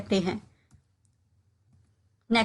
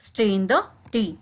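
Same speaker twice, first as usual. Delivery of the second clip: slow, careful drill phrase; slowed classroom demo; slow model repetition; much slower than usual. Shown as a demonstration. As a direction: spell it out slowly for learners. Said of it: "इसको हम English में कहेंगे".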